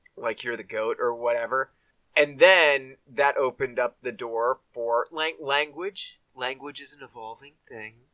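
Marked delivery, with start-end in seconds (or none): 6.4-8.0 hushed, very quiet, soft radio announcer voice. Talking about language mid-conversation while switching into an NPR voice. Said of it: "I'm using my NPR voice right now".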